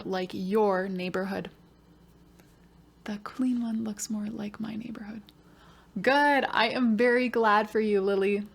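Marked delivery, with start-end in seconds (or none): 3.0-5.2 put-on soft whispered child's reply; whispered student answer. Pretend pupil answering the teacher, whispered.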